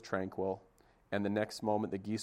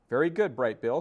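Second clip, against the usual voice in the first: louder, higher goose voice; praising goose; 4 semitones higher, 8 dB louder than usual. Acted. Goose praising the gosling swimming, proud. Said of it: "said Loudwing as she floated past".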